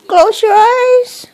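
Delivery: loud, high firm command; stern shout. Real, not acted. Repeated bedtime order, "I said.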